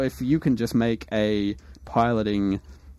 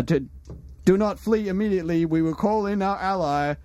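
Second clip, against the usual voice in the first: somewhat higher threatening captain; a touch of menace; 5 semitones higher than usual. Acted. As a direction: threaten them off the sky. GM voices threatening fleet.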